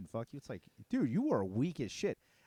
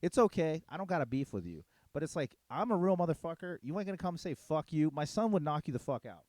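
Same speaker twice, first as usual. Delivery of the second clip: heated trash talk, a bit raised in pitch; riled but short of real rage; a little heated; 3 semitones higher than usual. Real, not acted. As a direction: get worked up as you tell someone off. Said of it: "I'm getting a little heated".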